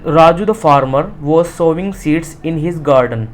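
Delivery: slow, word-by-word reading for students; slow reading aloud. Shown as a demonstration. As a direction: read it out carefully for the class. Teacher reads textbook line. (धीमी आवाज़ में पाठ पढ़ना)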